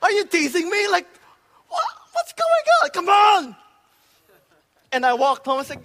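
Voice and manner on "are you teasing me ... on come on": higher, louder, anguished crying plea; bawling at God. Retold or imitated. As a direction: wail at God in half-laughing anguish. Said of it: "just started bawling and crying".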